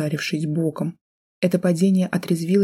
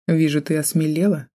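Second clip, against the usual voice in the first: smirking. Acted. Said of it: "противно ухмыльнулся Пластинин".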